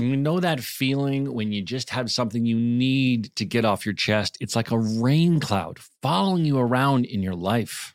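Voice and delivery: scripted podcast sponsor read. Acted. Host describing stress for a therapy sponsor, measured ad read. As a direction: deliver it to listeners as prepared copy.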